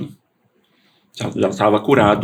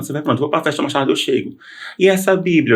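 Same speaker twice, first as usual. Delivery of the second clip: higher-pitched, lightly acted mother-and-son exchange; retold back-and-forth; 5 semitones higher than usual. Mother questioning her departing son, lightly acted back-and-forth. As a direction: replay the questioning, pitch climbing to the last question.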